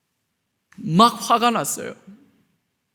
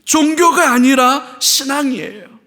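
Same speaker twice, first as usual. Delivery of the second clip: loud firm declaration; 4 semitones higher, 5 dB louder than usual. Shown as a demonstration. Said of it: "repeated line".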